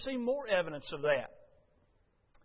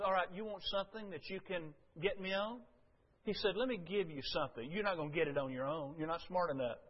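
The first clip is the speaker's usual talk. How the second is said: quiet confession; 6 dB quieter, faster than usual. Retold or imitated. Jesus quietly confessing to Caiaphas.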